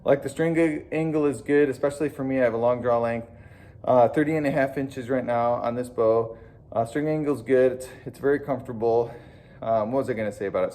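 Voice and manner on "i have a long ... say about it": winded from running the stairs; slightly breathless talk; out of breath. Real, not acted. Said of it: "Sorry, I'm out of breath".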